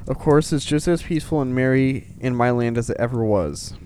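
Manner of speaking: lightly performed storybook reading; measured read-aloud voice; letter read aloud. Acted. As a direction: read Father Christmas's letter out clearly. Reads Father Christmas letter aloud.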